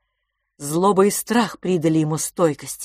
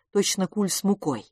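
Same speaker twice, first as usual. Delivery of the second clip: ordinary delivery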